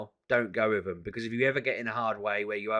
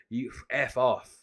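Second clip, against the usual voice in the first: ballistic; 2 semitones higher, slower than usual. Retold or imitated. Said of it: "And I went ballistic".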